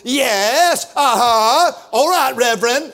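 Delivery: lightly voiced churchgoers affirming; congregation call-back. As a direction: egg the reverend on from the pews. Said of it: "the more I would read".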